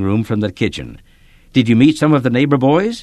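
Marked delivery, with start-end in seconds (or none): 1.5-3.0 bright calling-out, higher; mother calling cheerfully, higher and a bit louder. A narrator's reading. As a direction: call out cheerfully from the kitchen. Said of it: "she called cheerfully".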